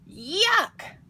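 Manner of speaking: high, loud cry of yuck; grossed-out little boy's yelp; disgusted. A narrator's reading. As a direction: recoil in kiddish disgust. Kitten disgusted by kissing.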